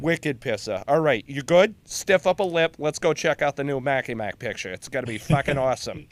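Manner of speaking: hammed-up Boston accent; Bostonian accent. Shown as a demonstration. Colonel inviting marine to the movies, in a Bostonian accent. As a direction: banter like a Boston local. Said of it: "what that sounds like in a Bostonian accent".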